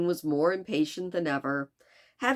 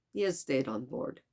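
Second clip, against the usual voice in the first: Passepartout; 2 semitones lower, 3 dB quieter than usual. Acted. Servant tells the detective of his master, poor French accent. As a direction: answer in a clumsy French accent. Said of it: "tried to do a French accent very poorly".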